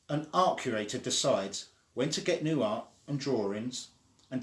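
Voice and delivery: lively storybook read-aloud; animated children's book reading. Acted. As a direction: read it like bedtime story time for little ones.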